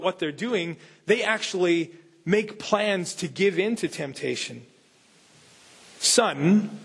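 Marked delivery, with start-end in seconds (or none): 6.0-6.8 a mildly stern fatherly call. Acted. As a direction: call the son with a touch of sternness. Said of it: "a father said sternly".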